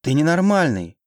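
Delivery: high-pitched outraged cry; outraged wail. A narrator's reading. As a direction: cry it out at a madman. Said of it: "завопила я".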